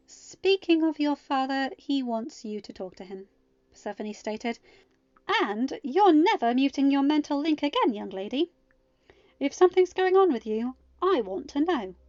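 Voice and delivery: a firm mom laying down the rule; stern mother. Acted. Persephone scolding gently.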